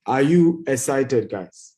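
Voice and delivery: loud, drawn-out rallying call; hyping the crowd. Real, not acted. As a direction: fire up the audience loudly. Hyping up the webinar audience.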